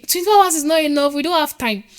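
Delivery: mild mock grumble about having no time; mock complaint. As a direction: lightly mimic people moaning they have no time. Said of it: "They complain".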